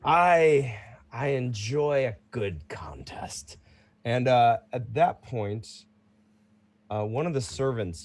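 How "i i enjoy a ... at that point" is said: lightly voiced proud fighter, mostly in own voice; a hint of a seasoned champion; casual veteran fighter answering; Bruno the champion.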